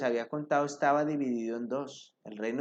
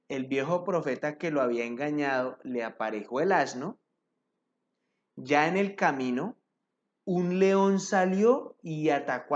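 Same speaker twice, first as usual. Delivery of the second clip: emphatic reading of a Bible story; scripture narration. A narrator's reading. Preacher reads the prophet's story to the congregation, emphatic narration. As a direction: read scripture out with measured emphasis.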